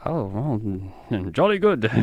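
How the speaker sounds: mock English accent, hesitant then perky; hammed-up English accent, lifting at the end. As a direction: play a bumbling Englishman saying it. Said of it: "This is my English accent".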